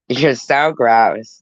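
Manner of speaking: slow, drawn-out disgust; full-voiced, lingering disgust; emphatic disgust. Real, not acted. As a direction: stretch out the revulsion, firmly. Repeated teasing disgust, fading.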